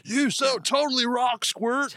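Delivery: high, slow laid-back surfer turtle; Crush the turtle. Retold or imitated. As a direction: stretch it out like a chill sea turtle. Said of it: "you could have gone to Crush".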